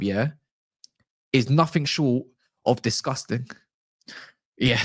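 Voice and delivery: a lightly done Chelsea-fan accent, badly held; hammed-up football fan accent, half-hearted; bad put-on accent. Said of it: "that was probably the worst accent ever".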